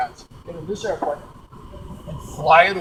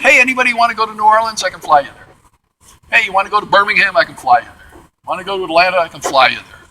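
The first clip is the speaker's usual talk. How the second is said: quick, loud mock sales pitch; pilot touting rides; 2 semitones higher, 6 dB louder, faster than usual. Crop-duster offering strangers flights to other cities, touting briskly. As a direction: call out offers briskly, voice dropping on each promise.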